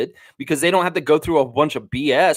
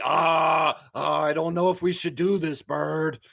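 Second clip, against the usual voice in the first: lightly voiced nervous puppet; Telly Monster voice; slower than usual. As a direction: fret like a worried puppet.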